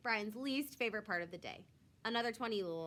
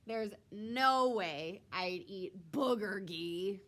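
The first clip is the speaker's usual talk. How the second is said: mocking sneer; 4 dB louder, much slower than usual. Kid mocks Justin's food.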